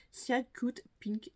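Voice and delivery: slow English name in a French accent; real French-accented English, laboured and careful; poor English accent. Real, not acted. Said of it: "mon accent anglais".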